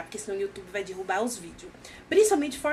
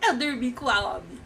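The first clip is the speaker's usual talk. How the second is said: desperate; 7 semitones higher, slower than usual. Retold or imitated. Man confessing to his friend, panicked and near tears. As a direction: blurt it out in a panicked cry. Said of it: "Aí ele fala desesperado".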